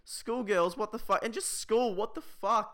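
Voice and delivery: exasperated rant, pitched high; riled up. Real, not acted. Comic ranting about a schoolgirl crying in class, riled up. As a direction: spit out each disbelief in a high, worked-up voice. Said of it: "actually getting me riled up right now".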